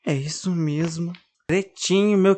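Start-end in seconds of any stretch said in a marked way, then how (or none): 0.0-1.1 sobbing. Acted. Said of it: "entre soluços".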